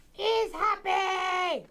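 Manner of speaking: high, stretched shout of joy; drawn-out shout. Real, not acted.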